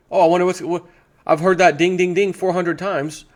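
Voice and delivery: cows talking. Retold or imitated. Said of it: "says the cows".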